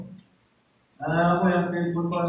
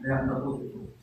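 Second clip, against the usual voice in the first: whisper; 4 semitones lower, 6 dB quieter than usual. Shown as a demonstration. Repeats line as an aside.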